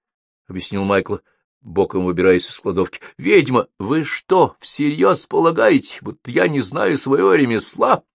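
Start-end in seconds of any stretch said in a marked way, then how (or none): 3.2-8.0 high-pitched, testy rhetorical question; irritated. A narrator's reading. Wizard defends his craft to apprentice, irritated. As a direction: ask it with wounded, exasperated emphasis. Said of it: "Раздражённо поинтересовался Холл".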